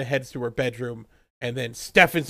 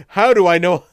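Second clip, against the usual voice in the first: mock dramatic retort; 4 semitones higher, 10 dB louder than usual. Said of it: "John goes".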